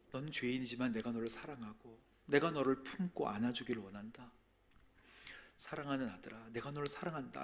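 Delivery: soft, tender fatherly voice; soft, loving voice of God. Retold or imitated. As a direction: speak gently like a loving father. God's voice in testimony.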